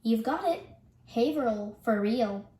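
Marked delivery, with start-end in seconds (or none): 1.1-1.8 Haverhill as HAY-vrul; local pronunciation. Shown as a demonstration. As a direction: drop the second h in Haverhill. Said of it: "Can you guess the pronunciation".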